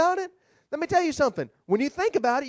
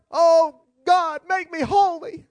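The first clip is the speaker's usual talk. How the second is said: higher, louder pleading prayer; mock church prayer; 7 semitones higher, 4 dB louder, slower than usual. Congregation praying to God in church, mock pleading prayer. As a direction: cry it out slowly like an earnest prayer. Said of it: "We're praying in the church".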